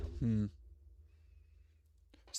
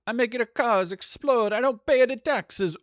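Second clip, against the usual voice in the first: silly voice; 11 semitones higher, 7 dB louder than usual. Pretend. Mock rant voice.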